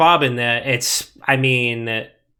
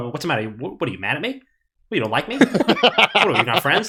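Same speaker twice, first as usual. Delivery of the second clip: guilt-trip like a hurt mother, breaking into a laugh; Italian mom. Retold or imitated. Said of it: "the Italian mom in me".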